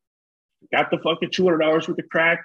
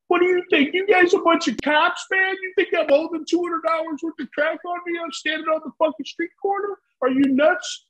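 much higher, mocking street dealer; indignant dealer voice, pitched up high; suspicious street dealer; 12 semitones higher than usual. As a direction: sneer at them as if they're cops. Street dealer scolds two strangers.

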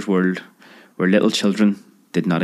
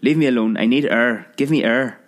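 gasping for air; 3 semitones higher than usual. Acted. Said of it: "cried the now not-so-manly lover".

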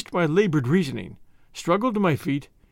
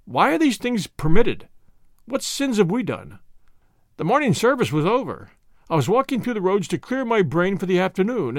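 a hint of a despairing clergyman, pitched up; lightly voiced distraught curate; 3 semitones higher than usual. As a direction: lament it as a shaken curate. Curate laments the destruction.

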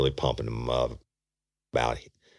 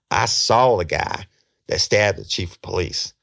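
excited revelation; 5 semitones higher, 4 dB louder than usual. Retold or imitated. Suspect telling detective whom he saw, excited. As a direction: announce big news eagerly, imitating the teller. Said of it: "He's so excited".

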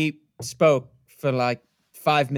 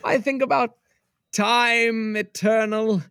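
slow, dreamy verse reading; poetic recitation. Acted. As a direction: recite it like a grand poem. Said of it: "so I'm losing my meter".

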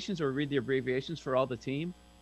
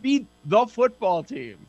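slow, loud and grand; mock grand proclamation; 7 dB louder, slower than usual. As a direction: announce it like a solemn decree. Mock proclamation about teammate.

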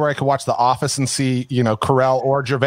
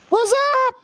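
high, hammed-up podcast host greeting. Shown as a demonstration. Host showing his co-host the podcast voice, hammed-up. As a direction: put on an over-the-top podcaster shout-out. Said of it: "my podcast voice, which is a little louder".

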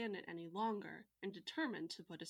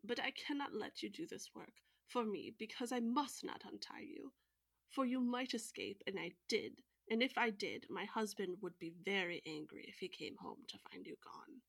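put-on old woman's voice. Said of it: "said the old woman".

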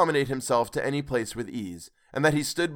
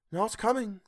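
Mrs Cratchit teasing; 9 semitones higher, 3 dB quieter than usual. A narrator's reading. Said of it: "said Missus Cratchit".

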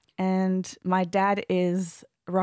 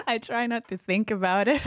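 trying to steady voice; 3 semitones higher than usual. Real, not acted. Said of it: "it was a bit emotional".

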